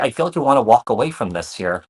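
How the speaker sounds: talking with food in mouth; words around a chia seed; mouth full. Real, not acted. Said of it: "I have a chia seed in my mouth".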